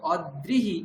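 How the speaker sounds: "অদ্রিহি" broken as od-drihi; split consonants. Shown as a demonstration. Teacher marks it wrong for ri-kar, d split off. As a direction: double the d in "অদ্রিহি", od then drihi. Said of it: "এই উচ্চারণটা ভুল".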